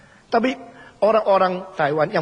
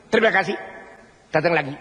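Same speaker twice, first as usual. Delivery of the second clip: mechanical staff greeting; much faster than usual. Retold or imitated. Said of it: "Jadi seperti gini loh".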